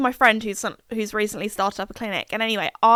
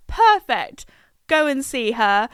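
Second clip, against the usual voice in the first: excited; 3 semitones higher, 3 dB louder, slower than usual. Retold or imitated. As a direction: jump at the offer. Eager reply to friend.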